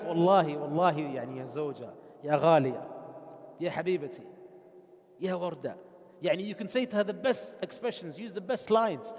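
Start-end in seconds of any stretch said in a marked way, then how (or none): 0.0-5.8 mock pleading husband. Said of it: "You could be like".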